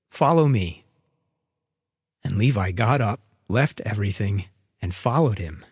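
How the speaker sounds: measured Gospel reading with long pauses; scripture reading. A narrator's reading. Preacher reads Luke's account to the congregation, measured and deliberate. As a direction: read it out deliberately, lifting key words.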